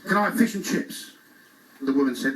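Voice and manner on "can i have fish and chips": called out. Retold or imitated. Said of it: "This is a library".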